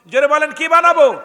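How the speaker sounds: loud, high demand for a response; rousing crowd call. Real, not acted. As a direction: shout the question out to the congregation. (চড়া গলায় জনতাকে ডাক)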